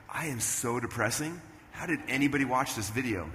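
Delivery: subdued retold dismay. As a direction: mull it over, deflated. Retold dismay at old videos.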